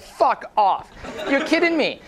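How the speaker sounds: shocked laugh at the news; disbelief. Retold or imitated. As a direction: gasp it out through a laugh. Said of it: "I'm like".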